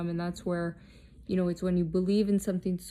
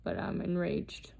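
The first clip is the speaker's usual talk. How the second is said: controlled rage; 4 dB quieter than usual. Real, not acted. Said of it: "rage is a lot scarier when it's controlled".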